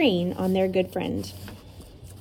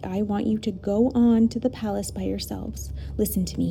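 firm. Acted. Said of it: "he said firmly".

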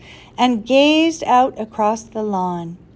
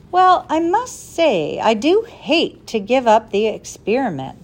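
wavering; 3 semitones higher than usual. Acted. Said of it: "the professor wavered".

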